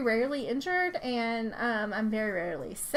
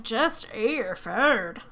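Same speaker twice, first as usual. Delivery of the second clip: exasperated order; 4 dB louder, much slower than usual. Retold or imitated. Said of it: "And I'm like".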